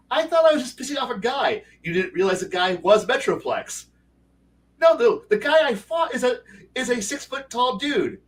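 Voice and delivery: high, indignant complaint from the beaten player; whiny player protest. Retold or imitated. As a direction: squeak it out like someone who got flattened unfairly.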